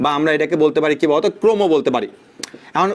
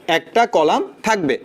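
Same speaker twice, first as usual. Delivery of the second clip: slower emphasis; slower than usual. Shown as a demonstration. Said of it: "slow repeat for emphasis".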